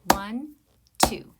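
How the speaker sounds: loud, clear count-in; counting aloud. Shown as a demonstration. Teacher counting in the beat, loud and steady. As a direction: count the beats out loud for the class. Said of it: "So I'll count to two first".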